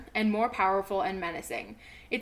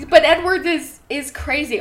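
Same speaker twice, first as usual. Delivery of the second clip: higher, louder, stressing crazy; emphatic insistence; 4 semitones higher, 10 dB louder than usual. Real, not acted. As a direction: drive the point home. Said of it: "own emphatic point".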